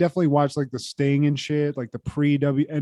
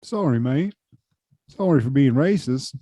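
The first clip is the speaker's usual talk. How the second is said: mock Australian. Joins mock Australian apology.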